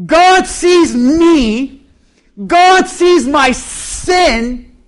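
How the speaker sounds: very slow, each word weighed; emphatic. Real, not acted. Preacher applying the verse to himself, very slow and emphatic. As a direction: draw it out like a confession.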